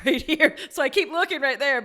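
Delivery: quick words through a real laugh. Real, not acted. Laughing to her host about the empty office wall.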